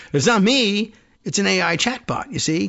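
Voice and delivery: mock excuse. Lender shifting blame onto the AI chatbot, mock protest.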